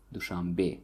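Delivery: Dushanbe stressed on the final be; Dushanbe, last syllable stressed. Shown as a demonstration. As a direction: land the weight on the be of Dushanbe. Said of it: "the stress falls on the last syllable".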